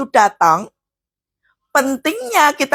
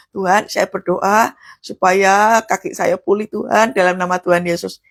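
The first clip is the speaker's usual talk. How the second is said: low, subdued pleading prayer; ordinary hopeful prayer; 4 semitones lower than usual. Shown as a demonstration. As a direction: pray it mildly, without authority. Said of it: "Doa itu bukan doa umum".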